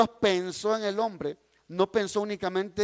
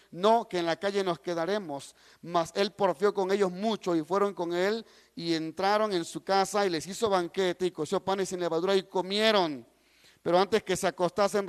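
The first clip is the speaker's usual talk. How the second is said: even, lower-set Bible reading; scripture reading; 3 semitones lower than usual. A narrator's reading. Preacher reading Genesis to the congregation, scripture reading. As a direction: read the verse aloud in a measured public voice. Reads Bible passage aloud.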